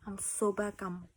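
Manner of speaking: quick excited whisper. Real, not acted. Telling viewers she's back, hushed whisper. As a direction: whisper fast so the cat isn't disturbed. Whispering beside her cat.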